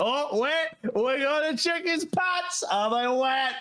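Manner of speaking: put-on tipsy voice. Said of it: "he's kinda like".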